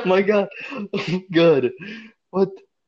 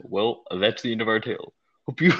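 lightly voiced narrator, pitched down; 4 semitones lower than usual. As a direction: close the tale like a narrator. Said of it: "Narrator pops in".

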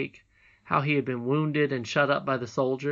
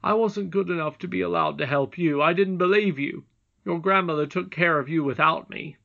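put-on raised, forceful boy's voice; contrite boy; 5 semitones higher, 6 dB louder than usual. A narrator's reading. Curdie admitting he didn't believe the princess, contrite. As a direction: own up earnestly and firmly.

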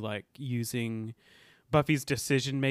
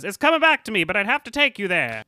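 high, loud, hurried-to-please voice; hammed-up squeal of someone being shaken down; mock panicked informant; 7 semitones higher, 10 dB louder, faster than usual. Informant giving in to Buffy's shakedown, mock panicked.

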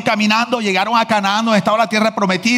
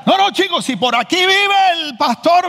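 high, slow, syllable by syllable; mocking Cuban man; 11 semitones higher, slower than usual. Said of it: "lo dije con las sílabas y todo". (burla aguda y lenta, sílaba por sílaba)

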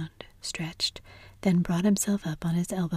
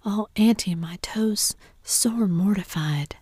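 drawn-out, slow mock agony; hammed-up invalid's lament; feigned suffering; 2 semitones higher, 3 dB louder than usual. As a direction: start loud, then drag out the complaint. Tom feigns agony for aunt.

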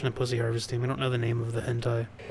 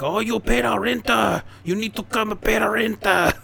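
Mickey Rooney's Mister Ho; 8 semitones higher, 5 dB louder than usual. Retold or imitated. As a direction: ham up an offensive old-movie Japanese accent. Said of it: "to do a very racist Japanese man".

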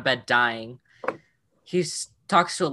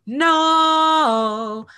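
high loud wailing no; mock scream; 13 semitones higher, 6 dB louder than usual. Eliza screaming over her dying son, loud mock wail. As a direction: scream it like a grieving mother. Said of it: "she goes".

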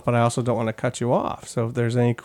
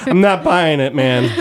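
laughing; 2 semitones higher, 3 dB louder, slower than usual. Retold or imitated. Joking audience member unconvinced.

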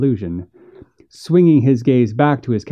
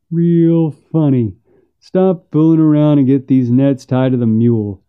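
unamused brother; 3 semitones higher, 4 dB louder than usual. Acted. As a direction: scold your brother for fooling around. Second brother scolds the first.

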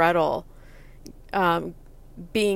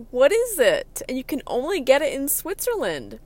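eager asking; 4 semitones higher, 4 dB louder than usual. Retold or imitated. Her eager self demanding the gift.

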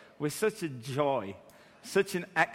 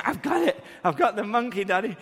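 put-on high, louder proud toddler; little girl voice; 4 semitones higher, 3 dB louder than usual. Daughter catches imaginary monkey.

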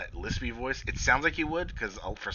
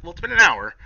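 high, loud flat reply; high mock voice; 8 semitones higher, 12 dB louder than usual. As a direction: shrug it off in a high voice. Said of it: "Rebo's like".

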